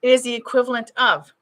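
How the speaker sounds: words broken by hiccups. Real, not acted. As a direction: still hiccuping. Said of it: "as I'm hiccuping here".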